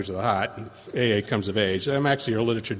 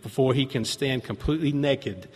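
earnest reading of a pamphlet; sincere reading of a quotation; reading aloud. Shown as a demonstration. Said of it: "It says".

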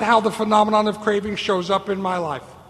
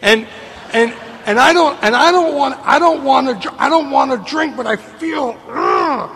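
frustrated plea; 3 semitones higher than usual. Retold or imitated. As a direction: stammer it out, desperate and fed up. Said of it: "I come to you and I say to you".

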